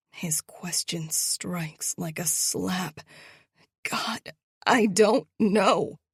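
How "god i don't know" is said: loud desperate plea; pleading. Acted. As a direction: beg for him to believe. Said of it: "I plead".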